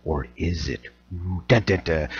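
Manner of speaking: low, hushed mystery teaser; hammed-up ominous aside; mock suspense. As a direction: drop low and soft for a playful dramatic sting. Mock suspense sting after teaser.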